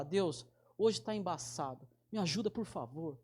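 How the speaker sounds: simple honest prayer. Retold or imitated. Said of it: "do meu jeito de falar".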